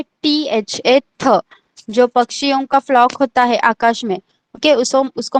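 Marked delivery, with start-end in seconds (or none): 0.0-1.4 थ after drawn-out letters "टीएचए"; pronunciation demo. Shown as a demonstration. Teacher answering how थ is pronounced, slow pronunciation demo. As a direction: slowly spell "टीएचए", then sound थ. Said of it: "कैसे pronounce करना है".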